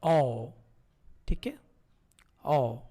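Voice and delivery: ओ modelled as a round o; Korean vowel o. Shown as a demonstration. Teacher demonstrates ओ for learners. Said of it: "इसको हम बोलते हैं".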